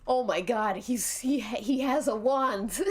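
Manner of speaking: stammering, hammed-up alarm; mock panic. Tavern crowd spotting the wizard's wand, mock panicked stammer. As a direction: play a frightened crowd, lightly. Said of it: "they're screaming".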